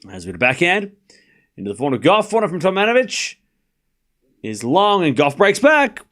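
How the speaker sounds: commentary climbing to a high finish; live play-by-play. Real, not acted. Tennis streamer calls Goff breaking back, live play-by-play. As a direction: build to the break of serve.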